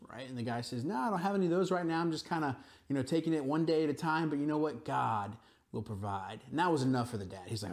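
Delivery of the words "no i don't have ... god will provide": put-on carefree young man. Suitor answering the girl's father, a lightly voiced carefree young man.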